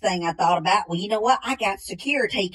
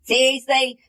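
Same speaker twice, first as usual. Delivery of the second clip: a light imitation of his buddy's higher, louder voice; mimicking friend; 3 semitones higher, 4 dB louder, slower than usual. Man predicting his buddy's reaction, mild mimicry. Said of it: "you're gonna go".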